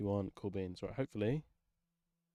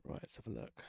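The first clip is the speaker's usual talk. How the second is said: breathy whisper, much softer; whispered test line; 6 semitones lower, 14 dB quieter than usual. Real, not acted. Streamer whispering a test line to check his audio. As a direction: whisper it into the mic to test the effect.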